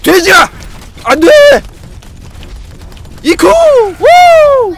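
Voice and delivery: high, loud panicked shouts; frantic yelling. Real, not acted. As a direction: yell in a wild panic. (흥분해서 소리 지르기)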